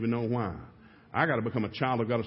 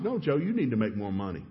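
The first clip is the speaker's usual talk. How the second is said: calm. Retold or imitated. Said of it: "she looked up real calm".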